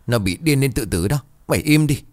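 angry shout. Acted. Husband yells at mother-in-law.

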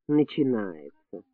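weary. A narrator's reading. Doctor weary of tears.

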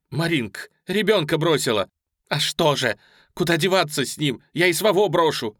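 high, loud outcry; desperate shout. A narrator's reading. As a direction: shout in despair. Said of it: "раздался женский выкрик". (отчаянный выкрик)

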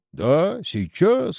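high, eager mild cry; narrated shout without extra volume; crowd shouting. A narrator's reading. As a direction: call out from the crowd, pitch jumping up. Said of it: "кричат в толпе".

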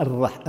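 "الرح-" with a light ra, "ar-rah" with front a; thinned ra. Shown as a demonstration. Teacher imitating those who thin the ra, light "ra". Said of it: "بعضهم يرققها".

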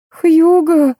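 high desperate plea; pleading. A narrator's reading. Maya begs Hugo to stop, pleading high. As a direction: beg him to stop, voice rising. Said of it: "взмолилась Майя".

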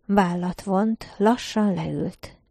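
ordinary delivery

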